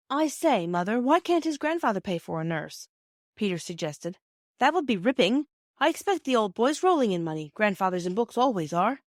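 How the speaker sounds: put-on a boy pleading his case with his mother; hint of an excited schoolboy; eager boy. Narrator voices eager boy.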